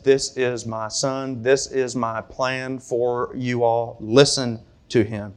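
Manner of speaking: slow, soft, solemn God's voice. Retold or imitated. A preacher voicing God to the church, slow and solemn. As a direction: speak as God would, slow and grave. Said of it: "He speaks audibly and says".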